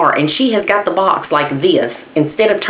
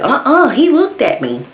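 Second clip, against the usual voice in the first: high, whiny, frightened no; scared refusal; 9 semitones higher than usual. Retold or imitated.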